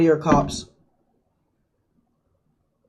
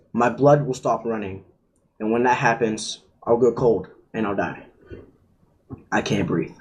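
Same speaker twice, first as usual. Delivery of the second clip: getting emotional; 4 semitones lower than usual. Real, not acted. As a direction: let it fade as emotion takes over. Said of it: "I'm getting a little, um, emotional".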